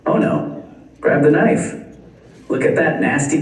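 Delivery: high, frantic doctor voice, words tumbling out; mock panicked doctor. Doctors in the delivery room panicking, in a high frantic voice. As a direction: squeal it like a doctor recoiling in disgust. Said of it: "they said".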